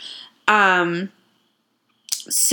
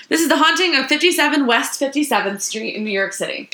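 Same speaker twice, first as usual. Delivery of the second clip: announcer voice; 5 semitones higher, faster than usual. Acted. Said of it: "formal intro restart".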